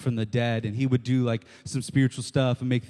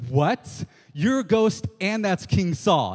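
a higher, louder startled outburst; shocked witch; 4 semitones higher, 3 dB louder than usual. Retold or imitated. Preacher voicing the stunned witch seeing Samuel, higher, louder. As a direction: blurt it like she's just seen a ghost. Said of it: "she's like".

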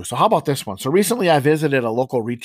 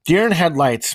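segment title call; 5 semitones higher, 5 dB louder than usual. Shown as a demonstration. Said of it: "the deer in the headlights segment".

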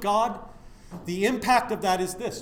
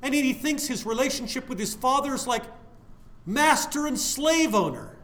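much louder and higher, slow on not a slave; fiery preacher outburst; 6 semitones higher, 4 dB louder than usual. Real, not acted. Preacher insists to listeners he's a son, loudly. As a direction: thunder the contrast from the pulpit.

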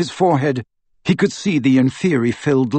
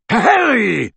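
panted; 9 semitones higher, 4 dB louder than usual. A narrator's reading. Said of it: "he panted".

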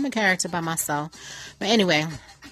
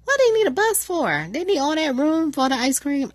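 incredulous; 8 semitones higher than usual. Real, not acted. Mocking the ice cream bus.

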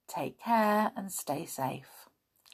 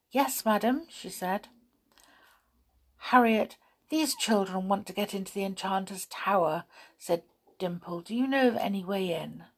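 gentle storybook reading, each character lightly voiced; story narration. A narrator's reading. Reading a children's story aloud to listeners, storybook voice. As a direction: read the chapter aloud to young listeners.

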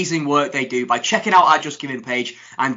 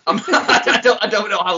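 chuckling; 8 semitones higher, 5 dB louder than usual. Real, not acted. Chuckling at drunk friend's advice.

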